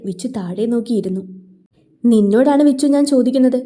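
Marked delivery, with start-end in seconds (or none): 2.0-3.6 louder, stern elder brother demanding an answer; raised voice. Acted. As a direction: raise your voice at the younger brother. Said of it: "സിദ്ധുവിൻ്റെ ശബ്ദമുയർന്നതും". (ശബ്ദമുയർത്തിയ ശാസന)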